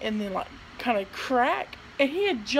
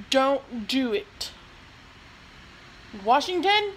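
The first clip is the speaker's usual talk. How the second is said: scolding; 3 semitones higher, 4 dB louder, slower than usual. Real, not acted. Scolding cat.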